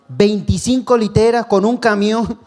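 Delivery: high, slowed, marvelling exclaim; testifying to the church about an unexpected gift, amazed and slow. Real, not acted. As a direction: savour the wonder of it. Amazed at donated bunk beds.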